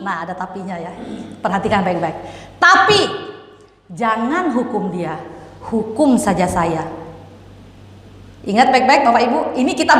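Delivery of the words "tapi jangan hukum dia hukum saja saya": pleading father. Retold or imitated. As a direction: beg to take the punishment yourself. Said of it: "Bapak ini bilang begini". (ayah memohon pelan dan sungguh-sungguh)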